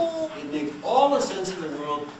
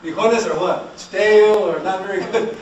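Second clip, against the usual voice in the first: mock dismissive; 3 semitones higher, 9 dB louder than usual. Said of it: "mock student question and answer".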